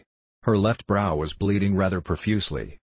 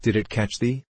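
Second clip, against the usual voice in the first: wondering concern; 3 semitones higher than usual. A narrator's reading. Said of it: "in tone of wondering concern".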